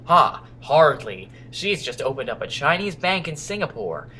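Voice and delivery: deliberate put-on American accent. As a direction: play the captain as an American. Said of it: "sorry, American accent".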